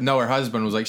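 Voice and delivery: ordinary talk, nothing marked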